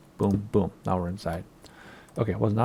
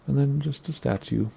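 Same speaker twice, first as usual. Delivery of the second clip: hiccuping mid-sentence; words broken by hiccups; 5 semitones higher than usual. Real, not acted. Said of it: "Sorry, I have the hiccups".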